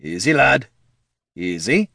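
wary, measured coaxing; calming a dangerous beast; slow and careful. Acted. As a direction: ease it out with pauses between. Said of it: "said Gorm slowly".

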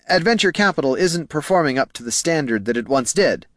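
nervous junior clerk. A narrator's reading. Clerk giving his bosses bad news, nervous. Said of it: "Poldo swallowed hard and continued".

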